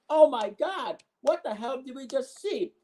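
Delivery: commentator yell. Pretend.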